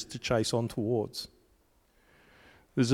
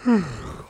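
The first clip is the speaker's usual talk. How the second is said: rabbit's sigh; 6 semitones higher than usual. Retold or imitated. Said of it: "the rabbit disappears and then goes".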